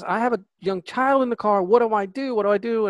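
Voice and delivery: retold panic. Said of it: "You hear the panic in her voice".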